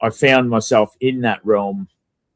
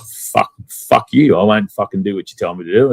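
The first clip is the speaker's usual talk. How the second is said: defiant swearing; 4 dB louder than usual. Retold or imitated. Defiant retort to pushy people.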